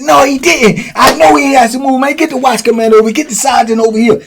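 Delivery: high, loud demanding; hollering. Retold or imitated. Charles at the booth demanding the sergeant, high loud hollering. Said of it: "He hollering, screaming".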